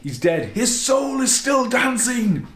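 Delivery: building to a high, loud, slow shout; hammed-up shout, slowing down; unhinged shout. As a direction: rant it out like a deranged cop. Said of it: "The guy's like".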